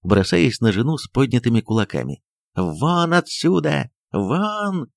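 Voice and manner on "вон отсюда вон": slow, high angry roar; furious order. Acted. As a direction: drive her out of the room. Доктор бросается на жену. (яростно, медленно и высоко: «Вон!»)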